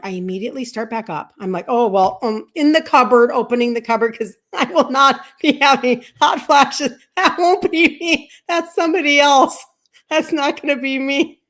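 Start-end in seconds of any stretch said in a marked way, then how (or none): 1.7-11.4 defiant declaration. Retold or imitated. Retold defiant self-talk at cupboard.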